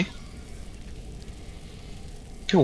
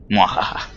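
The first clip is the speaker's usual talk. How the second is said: evil laugh; slower than usual. Pretend. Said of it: "Qué malvado soy".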